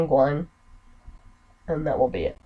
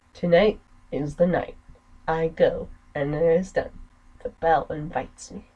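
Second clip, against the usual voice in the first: measured dramatic reading of a villain's confession; story narration; 3 semitones higher than usual. Acted. Reading the murderer's opening monologue to viewers, dramatic narration. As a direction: read it like a dark game intro.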